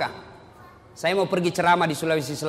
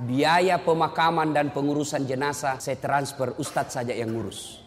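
lower, softer, offhand refusal; cold indifferent son; 4 semitones lower, 4 dB quieter than usual. Retold or imitated. The rich son brushes off the preacher on the phone, low and detached. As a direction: toss it off like the death means nothing.

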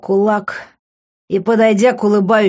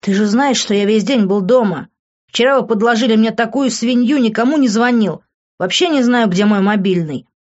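said angrily; 4 semitones higher than usual. Acted. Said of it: "зло сказал он".

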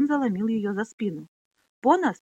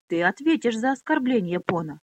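mild angry exclamation; 2 semitones higher than usual. Acted. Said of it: "воскликнула Минолли".

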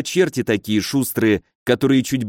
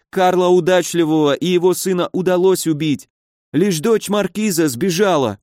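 high-pitched, pained wailing; panicked injured baron; 7 semitones higher than usual. A narrator's reading. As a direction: plead in high, agonised bewilderment. (высокий страдальческий голос перепуганного барона)

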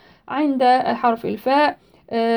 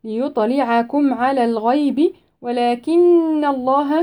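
slow measured tajweed recitation; Quran recitation; slower than usual. Shown as a demonstration. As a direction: recite it with tajweed, stretching the vowels.

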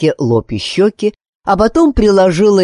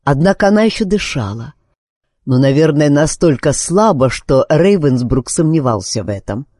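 ordinary delivery, nothing marked

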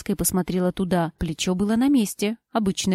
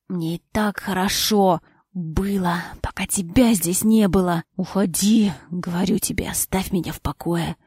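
hoarse rejection; 2 semitones lower than usual. Acted. Husband whispers rejection.

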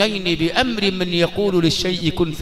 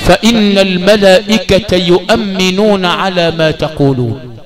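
emphatic recitation; 3 semitones lower, 8 dB louder, slower than usual. Shown as a demonstration. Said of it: "ليه؟".

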